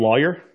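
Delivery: "lawyer" in a lightly Southern way; regional pronunciation of "lawyer". Shown as a demonstration. Showing friends his girlfriend's pick, Southern-sounding "lawyer". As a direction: say "lawyer" with a Southern first syllable. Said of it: "I said lawyer".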